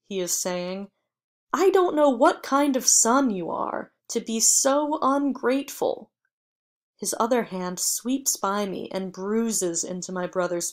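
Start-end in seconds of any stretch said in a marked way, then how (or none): 1.5-6.1 loud, higher furious rebuke; scolding father. A narrator's reading. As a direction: tear into the ungrateful son. Father scolding his son.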